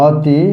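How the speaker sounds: অতি spoken with its first vowel as "o", like "oti"; closed o demo. Shown as a demonstration. Teacher shows students that অতি is said as "oti". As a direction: model অতি as "oti" for the class. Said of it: "আমরা আসলে উচ্চারণ করি অতি".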